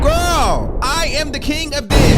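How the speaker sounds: rally the whole chat, loud and high; hype shout. Real, not acted. Hyping up the viewers, calling out.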